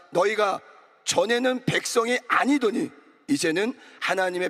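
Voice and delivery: emphatic, measured congregational reading; scripture reading aloud. Acted. Pastor leads congregation reading scripture together, firm recitation. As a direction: lead the verse firmly for everyone.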